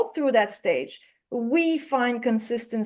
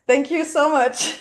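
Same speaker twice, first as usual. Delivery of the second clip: laughing thanks. Real, not acted. Thanks after the accent joke.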